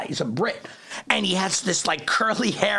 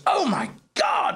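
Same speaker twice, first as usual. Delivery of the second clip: amazed whisper; 4 semitones higher, slower than usual. Retold or imitated. Boss amazed at the time.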